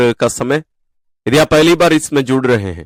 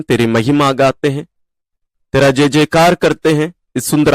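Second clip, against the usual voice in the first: earnest spoken prayer, slightly raised; fervent prayer; 2 semitones higher than usual. Acted. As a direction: pray aloud to the Father, leading the group. Leads an opening prayer. (प्रार्थना करते हुए, श्रद्धा से)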